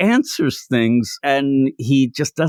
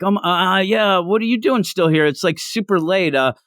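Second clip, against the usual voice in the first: nervous stammer; 5 semitones higher than usual. Retold or imitated. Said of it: "And she stammers".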